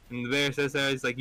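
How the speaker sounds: ordinary talk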